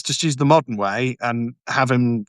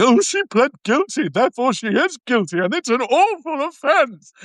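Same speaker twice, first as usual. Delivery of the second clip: high, prissy mock-pious voice, slowing on the last line; mocking sanctimonious barristers; 12 semitones higher than usual. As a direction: sneer at them in a much higher, holier-than-thou voice. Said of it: "sanctimonious fellow barristers going".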